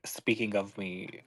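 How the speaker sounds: slow, quiet, menacing threat. Acted. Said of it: "add to it a little threat".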